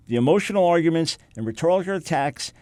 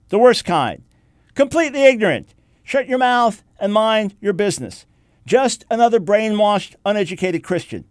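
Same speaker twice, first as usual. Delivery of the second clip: sneering quote; 4 semitones higher, 4 dB louder than usual. Retold or imitated. Reading hostile comments aloud.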